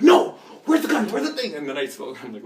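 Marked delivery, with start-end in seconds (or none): 0.0-0.4 sudden high, loud bark of a cop; mock cop shout. Second cop yelling, retold. 0.7-1.5 high, loud demanding cop; mock cop yell. Cop demanding the gun, retold.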